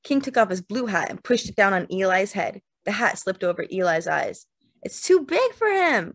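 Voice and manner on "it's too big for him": high, tiny, indignant cry; tiny outraged scream. A narrator's reading. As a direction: protest loudly in a little high voice. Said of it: "screamed in a tiny, outraged voice".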